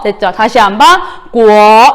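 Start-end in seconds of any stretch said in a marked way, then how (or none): 1.3-1.9 구어 with a rising second tone. Shown as a demonstration. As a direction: draw out 구어, sliding upward like a question. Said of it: "예, 성조 이성".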